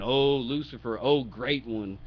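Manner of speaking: drawn-out mock praise; making fun. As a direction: hail him with light sarcasm. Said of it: "He's making fun of him".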